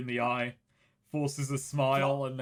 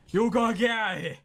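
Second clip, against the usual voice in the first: loud, raised-pitch urging; urgent warning; 6 semitones higher, 5 dB louder than usual. Acted. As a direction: urge them to get out, higher and louder. Hero urging kids to flee danger.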